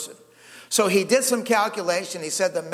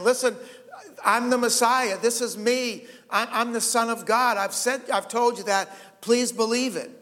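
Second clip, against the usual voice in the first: higher-pitched, insistent plea to be believed; emphatic; 5 semitones higher than usual. Retold or imitated. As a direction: press each short claim as Jesus, urging belief. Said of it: "just be as emphatic as he could".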